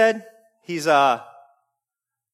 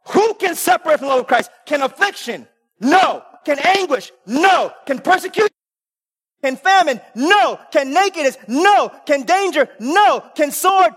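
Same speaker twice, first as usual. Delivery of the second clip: call and answer preaching; 3 semitones higher than usual. Acted. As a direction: drive the congregation toward the final No.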